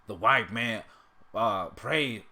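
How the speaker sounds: halting attempt at a cartoon character; Uncle Ruckus impression. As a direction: start and restart a put-on character voice. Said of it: "can't do it".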